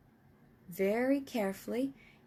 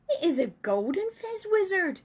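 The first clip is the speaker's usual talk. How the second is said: much higher, louder proud cry; excited; 9 semitones higher, 6 dB louder than usual. Acted. Giant boasting to Sophie about his dream. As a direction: proclaim the treasure. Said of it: "he cried".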